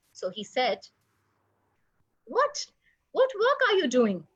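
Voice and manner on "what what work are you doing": incredulous monkey. Acted. Monkey indignant at squirrel.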